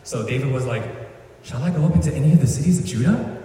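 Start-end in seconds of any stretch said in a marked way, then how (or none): 1.4-3.4 put-on quick kid voice, a bit higher; little kid asking dad. David asking God like a child asks his dad. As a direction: ask it like an eager little boy. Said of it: "like, a little kid talking to his dad".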